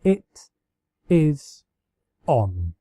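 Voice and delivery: slow, punchy, word by word; determined. Acted. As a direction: spell out the challenge. Accepting pillow fight challenge.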